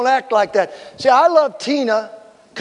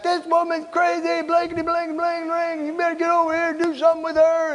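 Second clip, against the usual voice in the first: husband in background; 8 semitones higher, 3 dB quieter than usual. Retold or imitated. Husband complaining to the pastor from behind his wife, high-pitched mock rant. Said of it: "the husband's in the back".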